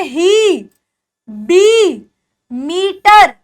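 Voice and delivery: ही, बी, मीटर each with a stretched "ee"; long, steady "ee" in ही, बी, मीटर. Shown as a demonstration. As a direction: hold the ई in ही, बी and मीटर. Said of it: "बड़ी ई की मात्रा".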